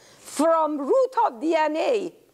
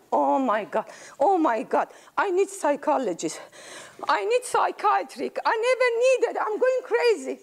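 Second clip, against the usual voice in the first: overwhelmed exclamation; 5 semitones higher than usual. Acted. Great-grandma overwhelmed.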